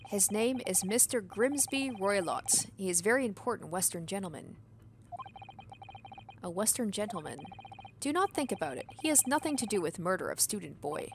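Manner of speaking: a lightly voiced broken-English sailor; hint of a burly foreign sailor; gruff sailor. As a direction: play a proud, touchy ship's crewman. Sailor speaks of Roylott.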